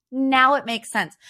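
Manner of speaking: dry "now" stressed, then falling on "makes sense"; sarcastic "now it makes sense". Real, not acted. Host scoffing at the reunion story, sarcastic. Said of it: "but, oh".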